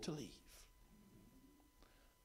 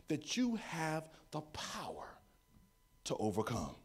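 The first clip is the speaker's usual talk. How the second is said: hushed voiceless whisper; 3 semitones lower, 3 dB quieter than usual. Real, not acted. Preacher whispering to the congregation, hushed. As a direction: whisper it like a secret.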